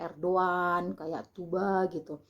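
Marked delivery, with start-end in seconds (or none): 0.1-0.9 "Erdogan" read as Er-do-an; unheard G. Shown as a demonstration. Vlogger illustrating the unheard Turkish G, silent g in "Erdogan". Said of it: "tidak terdengar gitu, dibacanya kayak". 1.3-1.9 "Tuba" with no g sounded; unheard G. Shown as a demonstration. Vlogger giving a second example, silent G in "Tuba". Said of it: "tidak terdengar gitu, dibacanya kayak".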